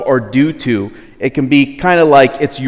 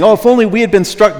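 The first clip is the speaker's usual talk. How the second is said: whiny complaint; 8 semitones higher, 5 dB louder, faster than usual. Retold or imitated. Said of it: "they're saying".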